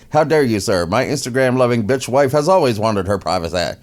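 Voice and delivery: mildly hammed-up indignation; mock indignant. Prince answering the talk show host, mock indignant. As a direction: play the offended prince, lightly. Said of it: "The prince responds".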